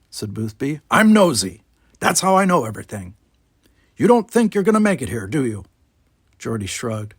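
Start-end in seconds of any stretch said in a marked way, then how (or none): 0.9-5.6 put-on grumpy old man.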